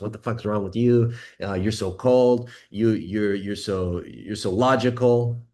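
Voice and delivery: mock-exasperated complaint at a cold guy; exasperated woman. Woman scolding her logical man, in a hammed-up exasperated voice. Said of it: "She goes".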